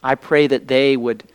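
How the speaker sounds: measured prayer with long pauses between phrases; earnest public prayer. Real, not acted. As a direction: pray aloud to the Father, phrase by phrase. Leads the congregation in prayer.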